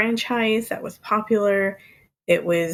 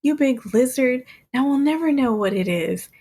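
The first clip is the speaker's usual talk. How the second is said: mild mock yell, pitched a little higher; Mister Potato Head yelling; 5 semitones higher than usual. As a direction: read out an annoyed shout at half strength. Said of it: "Mister Potato Head yells".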